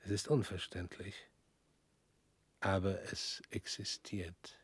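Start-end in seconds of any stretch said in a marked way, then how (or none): 2.6-4.6 slow, voiceless hush; slow whisper. Acted. Man slowly whispering that the past exists. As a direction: let it hang, barely breathed. Philosophical musing.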